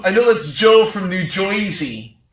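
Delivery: put-on a weak, half-hearted stab at a New Jersey accent. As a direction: lightly mimic a New Jersey caller, barely shifting the voice. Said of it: "the best I have for an accent".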